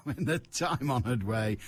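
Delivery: laughing through the words; chuckling. Real, not acted. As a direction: repeat it while still tickled by the phrase. Chuckling at own stock phrase.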